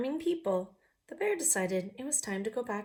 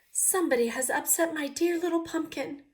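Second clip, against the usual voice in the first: much higher, louder mommy voice; 8 semitones higher, 5 dB louder than usual. Acted. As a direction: fuss over it as the mommy. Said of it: "said the mommy person".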